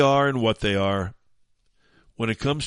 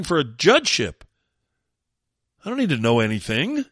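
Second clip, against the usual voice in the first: high, loud, hammed-up haughty woman voice, pitched way up; mock nominee voice; 6 semitones higher, 4 dB louder than usual. Host mocking the nominee in a high put-on voice. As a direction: lampoon her as smug and clueless.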